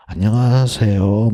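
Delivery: slow, loud, formal hello; stiff formal bow greeting. Shown as a demonstration. Student greeting teacher in hallway, stiff and formal. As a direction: greet like a kindergartener bowing. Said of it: "막 배꼽 인사".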